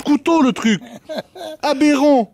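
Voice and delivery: laughing. Real, not acted. Laughing at the tyre.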